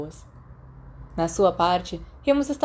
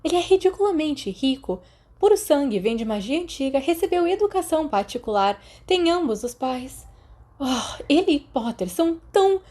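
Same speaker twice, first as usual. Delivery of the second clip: scornful Lily voice; 7 semitones higher than usual. A narrator's reading. Lily listing Sirius's advantages to Remus, high scornful voice. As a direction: sneer through each privilege.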